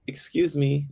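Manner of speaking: apologetic, nervous. Retold or imitated. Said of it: "apologetically, a little nervous".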